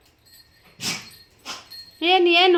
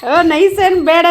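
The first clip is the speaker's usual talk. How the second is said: laughing scold; 9 dB louder, slower than usual. Real, not acted. Laughing while scolding dog.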